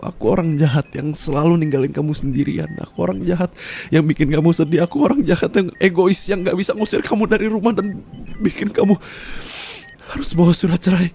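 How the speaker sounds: each line climbs closer to tears; rising tearful self-blame. Acted. Spouse confessing to partner, building tearful self-blame.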